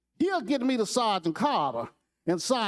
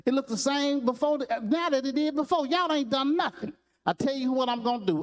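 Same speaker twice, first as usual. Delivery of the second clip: raised, scolding drill sergeant, pitched higher; a mock sergeant's tirade, pitched up; fussing sergeant; 6 semitones higher than usual. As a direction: chew out the recruits like a sergeant. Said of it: "he started fussing at him".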